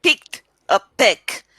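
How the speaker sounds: put-on "picked a peck" with unpuffed p's, Indian accent; Indian-accented learner's version of "picked a peck"; imitated Indian accent. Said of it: "See, you say".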